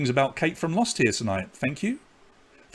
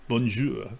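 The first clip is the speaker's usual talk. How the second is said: Bonjour in a light mock Italian accent; 3 semitones lower, 4 dB quieter than usual. Host jokingly greeting viewers, light Italian-accented French. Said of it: "I do my French with an Italian accent".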